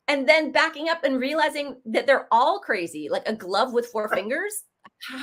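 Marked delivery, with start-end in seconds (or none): 3.3-4.6 puzzled, with a rising end; baffled disbelief, lifting at the end; incredulous questioning. Retold or imitated. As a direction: question it as plainly absurd. Mocking the crazy definition, incredulous.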